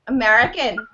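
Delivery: quick attempt at an American accent; a go at sounding American. Shown as a demonstration. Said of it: "we wanna hear an American accent".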